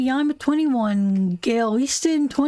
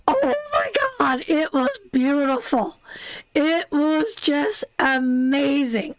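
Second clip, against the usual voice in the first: gushing delight. Real, not acted. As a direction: squeal it, overcome by the hat. Gushing over the royal hat.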